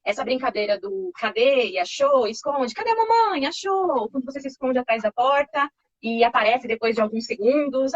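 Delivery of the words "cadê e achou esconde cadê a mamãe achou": playful peekaboo. Shown as a demonstration. Peekaboo game played with baby.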